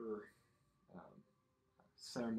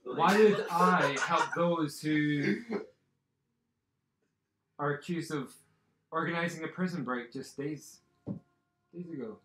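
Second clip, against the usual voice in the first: loud, raised, declaiming challenge; indignant; 4 semitones higher, 10 dB louder than usual. Acted. Minister refusing to help the accused, loudly indignant. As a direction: project an offended refusal.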